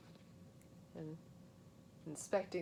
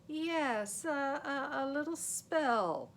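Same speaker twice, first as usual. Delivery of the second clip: nervous stammer; 7 semitones higher, 5 dB louder, slower than usual. Acted. Nervous stalling.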